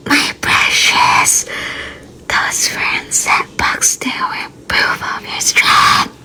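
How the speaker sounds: slow, eerie hushed whisper; creepy soothing whisper. Shown as a demonstration. Streamer's soothing voice that comes out creepy, eerie whisper. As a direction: soothe like a horror villain. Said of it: "Soothing pang horror".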